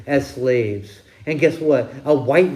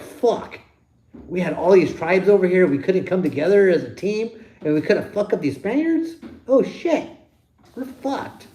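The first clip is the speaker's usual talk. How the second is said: mock dismayed natives; 4 semitones higher than usual. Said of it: "They're like".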